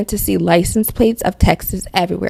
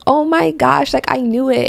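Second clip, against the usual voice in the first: excited; 6 semitones higher than usual. Retold or imitated. Excited reaction retold.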